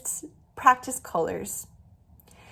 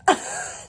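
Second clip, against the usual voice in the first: short embarrassed laugh. Real, not acted. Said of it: "I just made that up".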